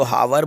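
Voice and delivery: हावर with a sounded h and a v; two syllables, हावर starting on h; wrong pronunciation. Shown as a demonstration. Teacher quotes what is never said, mispronouncing हावर with an h. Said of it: "इसका wrong pronunciation होता है".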